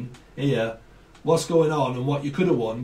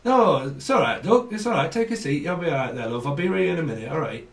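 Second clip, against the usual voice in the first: put-on northern accent. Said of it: "and then my accent changed".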